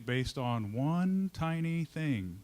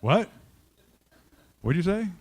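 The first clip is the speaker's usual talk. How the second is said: mock startled; 5 semitones higher, 8 dB louder than usual. Caught distracted by Linda.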